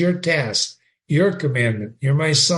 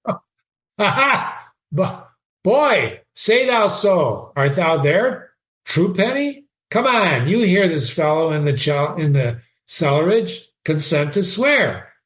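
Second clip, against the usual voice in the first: reading Shakespeare aloud with feeling; dramatic reading. Acted. Teacher reading Horatio to the class, dramatic reading. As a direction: give Horatio's line a lively read. Reads Hamlet mocking the ghost.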